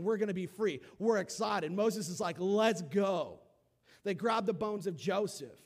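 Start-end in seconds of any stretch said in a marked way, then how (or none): 0.0-1.7 louder, eager cheer of freed slaves; mock excited crowd. Preacher voicing Israelites leaving Egypt, excited cheer. 2.4-3.4 eager go. Retold or imitated. Moses voiced, eager.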